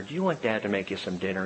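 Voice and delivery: soft, fast whisper in her ear. Retold or imitated. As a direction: lean in and whisper gently to a tired child. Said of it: "I just whispered in her ear".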